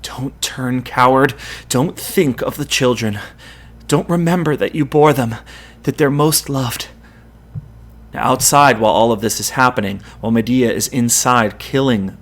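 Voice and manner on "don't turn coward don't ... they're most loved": firm. Acted. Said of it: "saying firmly this time".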